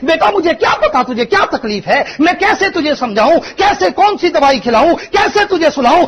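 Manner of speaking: high, loud, tearful pleading; preacher voicing a weeping mother; mother crying. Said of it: "फिर रो के कहती है".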